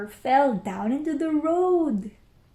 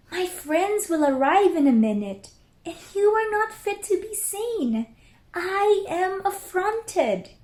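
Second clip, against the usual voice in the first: indignant mother; 8 semitones higher than usual. Acted. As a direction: play the affronted mother scolding her kittens. Mother scolds kittens without clothes.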